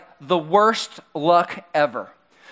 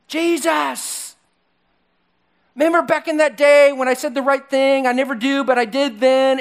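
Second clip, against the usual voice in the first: higher, louder, boastful voice of Peter; cocky Peter; 6 semitones higher, 3 dB louder than usual. Retold or imitated. Preacher voicing Peter boasting to Jesus, cocky and loud. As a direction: brag like an overconfident disciple.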